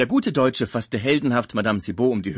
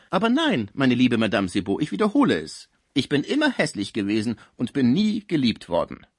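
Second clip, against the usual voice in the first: louder, higher protest; insistent denial; 3 semitones higher, 5 dB louder than usual. Acted. Sick man contradicts the flattering concierge, insistent protest. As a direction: insist on it point by point.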